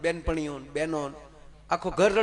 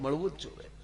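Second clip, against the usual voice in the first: much softer, મળવું જ જોઈએ said gently with a rise; soft restatement; 8 dB quieter than usual. Real, not acted. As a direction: quietly repeat મળવું જ જોઈએ as a firm afterthought. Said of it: "સાત વાર કહું".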